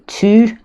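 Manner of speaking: French "tu" with a rounded front vowel. Shown as a demonstration. Teacher contrasting "tu" and "tout" in French. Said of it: "as in, in the informal you in French".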